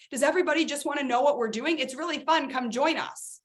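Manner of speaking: lightly hammed-up come-on; mock perky invite. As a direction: imitate a vague, fun-only pitch. Acting out their old vague pitch.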